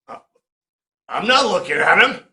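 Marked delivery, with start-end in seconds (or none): 1.1-2.2 flippant retort. Retold or imitated. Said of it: "Enough of you being flippant".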